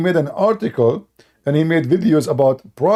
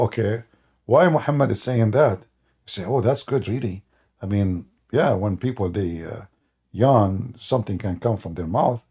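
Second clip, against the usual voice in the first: mock apologist voice; 8 semitones lower, 5 dB quieter than usual. Imitating Muslims' excuse.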